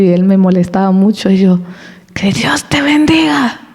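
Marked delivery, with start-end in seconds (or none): 2.1-3.6 higher, slow, hushed blessing; a mock-sweet whispered "Que Dios te bendiga". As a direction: breathe it out like a gentle blessing. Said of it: "Así, pero con enojo".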